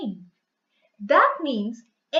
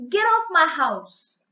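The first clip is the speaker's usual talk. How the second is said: louder, slow, firm order; angry command; 5 dB louder than usual. Shown as a demonstration. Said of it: "someone is giving out of anger".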